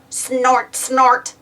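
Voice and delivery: snorting little pig giggle; a toddler pig snorting happily; piggy snort laugh. A narrator's reading. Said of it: "laughed George".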